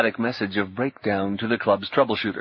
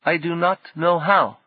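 weary sadness; 7 semitones higher than usual. A narrator's reading. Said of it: "There was only a little sadness in his voice, but a great lassitude".

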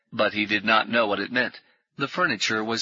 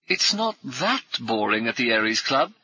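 hearty ex-officer. Acted. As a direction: bluff old soldier greeting new friends. Brummond jokes.

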